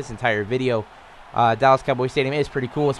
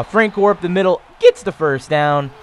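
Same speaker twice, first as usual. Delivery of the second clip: voice going high; 4 semitones higher, 4 dB louder than usual. Shown as a demonstration. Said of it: "Just me making my voice high".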